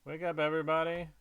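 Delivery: quick, restrained call-out; half-hearted yell to a whole town; mild mock yell. Loud letter E waking the town, mild mock yell.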